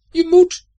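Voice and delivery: very high, loud shouted command; shouting. A narrator's reading. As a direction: yell it as an order. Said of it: "riep Herfst nu". (schreeuwend bevel, heel hoog)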